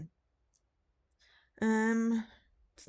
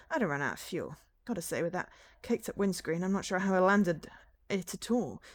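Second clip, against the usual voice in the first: pilot character voice; 2 semitones higher than usual. Acted. Reads pilot character's dialogue.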